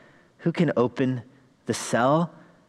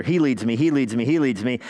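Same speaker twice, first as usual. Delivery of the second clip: "He" hit louder each time in "He leads me"; stress on HE; 3 dB louder than usual. Shown as a demonstration. Preacher hammering "He" as third person. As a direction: drum the word "He" to mark third person. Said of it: "third person, singular".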